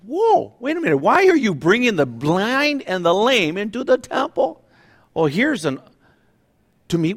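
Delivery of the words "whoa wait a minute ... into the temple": high, startled mock alarm; a flustered priest catching them at the door; priests freaking out. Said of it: "like, freaking out".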